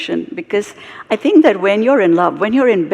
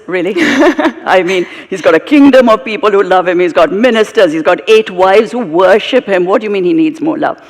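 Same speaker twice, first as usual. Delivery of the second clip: scoffing laugh, louder, incredulous; laughing in disbelief; 4 dB louder than usual. Retold or imitated. Sage Narad scoffs at the guru's claim, laughing. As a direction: laugh it off as absurd. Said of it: "Narad laughs at him and says".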